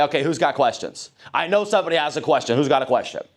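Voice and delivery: eager, open call for questions; welcoming invitation to ask; inviting questions. Shown as a demonstration. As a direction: coax someone to speak up. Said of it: "when I leave it open and say".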